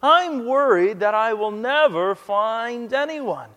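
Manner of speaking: lightly acted fretting; mild complaint. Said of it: "she complains to her roommate".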